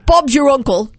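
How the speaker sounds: amateur British accent; light mock-British delivery; attempted British accent. Shown as a demonstration. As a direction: try the phrase as a would-be Brit. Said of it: "say these all with a British accent".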